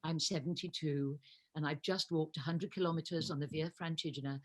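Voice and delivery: imitating her own nervous low voice meeting the Pope; voice went down. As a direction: drop the voice low and formal, a touch awestruck. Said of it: "my voice went down terribly".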